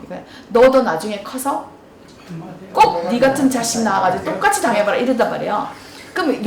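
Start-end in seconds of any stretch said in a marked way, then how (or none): 0.5-4.9 mock mother curse. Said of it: "엄마들 또 레파토리".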